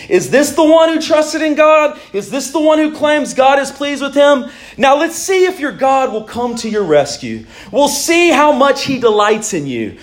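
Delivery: lifted, taunting voice of the scoffers; mocking jeer. Preacher voicing the crowd mocking the psalmist, taunting. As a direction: sneer it at the sufferer. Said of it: "spitting their insults, saying".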